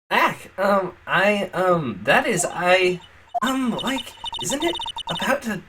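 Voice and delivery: put-on high, flustered Valley Girl. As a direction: stammer it out like a ditzy girl. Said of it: "couple more voices I have to come up with".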